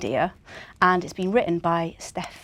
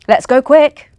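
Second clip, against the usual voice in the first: Santa rallying; 5 semitones higher, 12 dB louder than usual. Acted. Santa cheering team off.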